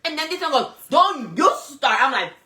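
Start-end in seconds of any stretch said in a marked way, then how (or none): 0.9-2.0 retold warning. Friend's warning acted out.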